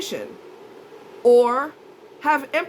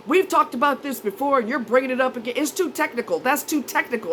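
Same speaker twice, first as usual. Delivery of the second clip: irritated; 2 semitones higher than usual. Retold or imitated. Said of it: "he basically went off on me".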